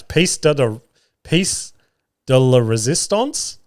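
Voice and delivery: halting attempt at "Piece de, de, piece de la resistance"; unsure pronunciation. Real, not acted. Podcaster attempting French words they don't know, faltering on "piece de la resistance". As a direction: stumble and restart on "de" and "piece", then draw out "resistance" uncertainly. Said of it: "words today that I don't know how to pronounce".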